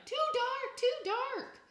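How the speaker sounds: high, loud scared wail; crying out. A narrator's reading. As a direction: wail it like a frightened toddler. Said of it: "Sam cried".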